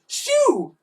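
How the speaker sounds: high, loud shoo; bawling. A narrator's reading. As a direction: shoo it away in a panic. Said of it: "bawled Edmund".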